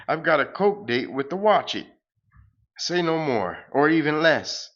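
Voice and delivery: sing-song grand farewell, hammed up; pompous hero. The hero flying off to the moon, light hammed-up hero voice.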